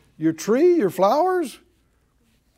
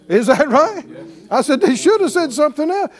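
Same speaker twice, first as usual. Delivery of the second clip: rallying call; 6 semitones higher, 6 dB louder than usual. Real, not acted. Rallying congregation.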